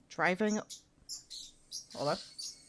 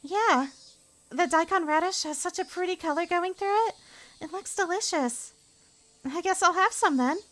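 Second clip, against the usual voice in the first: put-on much higher, cheerful girl's voice; sweet girl voice; 13 semitones higher, 5 dB louder than usual. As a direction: coo over the food sweetly. Second character voice.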